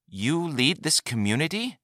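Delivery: rising, startled question; shocked question. A narrator's reading. Yagar, startled that the old man leads them. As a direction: let the shock jump out of him. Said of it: "the shock of his voice".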